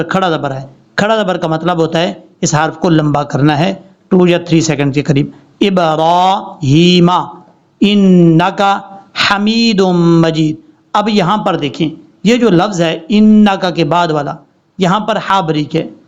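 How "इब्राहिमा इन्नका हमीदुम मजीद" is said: drawn-out Arabic recitation; slow recitation. Shown as a demonstration. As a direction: recite the durood calmly and slowly. Recites durood slowly. (धीमी दुरूद की तिलावत)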